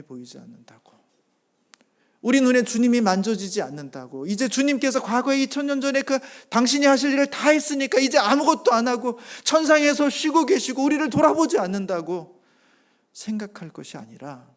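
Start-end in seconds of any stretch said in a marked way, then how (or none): 2.2-12.4 loud, high impassioned sermon voice; fervent preaching. Acted. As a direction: preach it out, building conviction. Preaching at full force. (열정적인 설교 톤)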